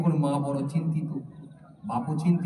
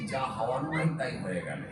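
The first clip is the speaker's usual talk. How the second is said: quiet, lower lament; 1 soft rueful sigh; 5 semitones lower, 6 dB quieter than usual. Retold or imitated. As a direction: rub the forehead and moan it. Beaten man laments softly. (নরম আক্ষেপে বলা)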